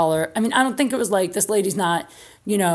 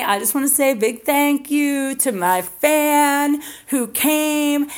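higher, slow gushing influencer voice; sugary mock thank-you to a fan; imitating Tiffany's video; 4 semitones higher, 3 dB louder than usual. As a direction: gush like a breathless fan video.

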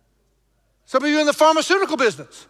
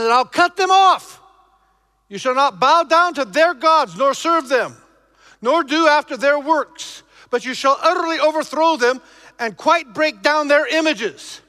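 thundering scripture; 2 semitones higher, 3 dB louder than usual. Acted. Reads scripture with force.

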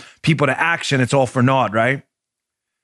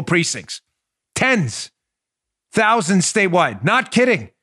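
rally speech; 3 semitones higher than usual. Real, not acted. Hyped get out the vote pitch.

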